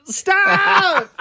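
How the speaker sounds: high, loud exasperated yell; shouting. Real, not acted. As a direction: yell at them to stop. Groaning at the terrible jokes.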